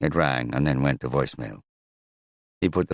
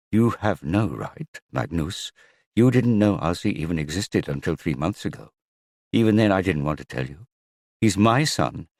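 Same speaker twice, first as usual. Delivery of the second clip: angry; 4 semitones higher than usual. Acted. Ingalif angrily refusing Magnus access to her son. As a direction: cut him down, hard and cold. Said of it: "anger flared in Ingalif's voice".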